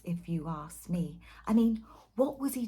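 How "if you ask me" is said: whispered gossip aside; conspiratorial whisper. Acted. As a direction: lean in and whisper it.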